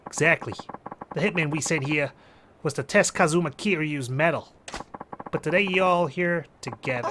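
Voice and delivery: Jersey-accented mafia man, lightly put on. Mafia hitman's boss explaining the test, Jersey accent. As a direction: explain the mission like a Jersey mobster. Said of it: "it's abrupt change of voice acting".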